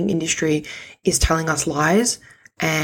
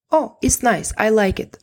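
lightly voiced Russian grandma, higher; understated grandma approval, pitched up; 5 semitones higher than usual. Imitating her Russian grandma's mild praise. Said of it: "she's Russian".

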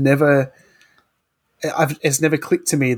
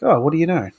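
mock surprise; 4 semitones higher, faster than usual. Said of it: "and I'll be like".

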